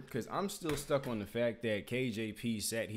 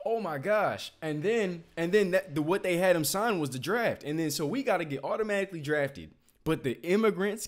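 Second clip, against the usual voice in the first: exasperated rant; 3 semitones higher, 5 dB louder than usual. Real, not acted.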